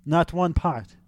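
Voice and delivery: mock German accent, correcting him; hammy, particular German-accented scolding; Tim voice. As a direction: lay down the rules in a fake German accent. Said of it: "I have to do the Tim voice".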